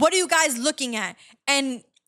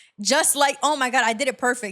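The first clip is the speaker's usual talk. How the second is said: ordinary talk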